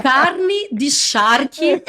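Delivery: very slow gaúcho Carne de charque with rolled R in carne and charque; gaúcho accent. Retold or imitated. Wife imitating her gaúcho husband, slow with rolled Rs. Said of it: "o André falava".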